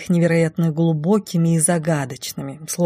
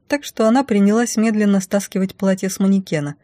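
ordinary delivery

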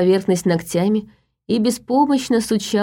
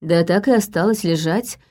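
plain reading voice

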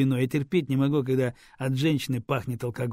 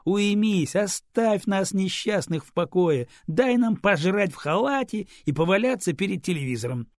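mocking plea; 7 semitones higher, 4 dB louder than usual. A narrator's reading. Man mocking her demands.

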